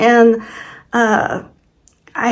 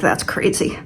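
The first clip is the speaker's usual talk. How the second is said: half-whispered disbelief; 5 semitones lower, 6 dB quieter than usual. Retold or imitated. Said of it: "And I'm like".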